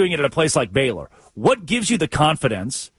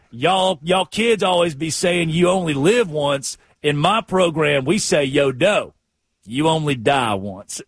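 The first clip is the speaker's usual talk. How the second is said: Southern drawl; slower than usual. Retold or imitated. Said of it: "slow-talking, Southern".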